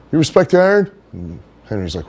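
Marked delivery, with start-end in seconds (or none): 0.1-0.9 high, loud dopey bro voice; Johnny Canine's voice. Retold or imitated. Johnny greeting Henry, in a high loud bro voice. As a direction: pitch way up and push it out like a meathead buddy. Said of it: "that's how he would talk".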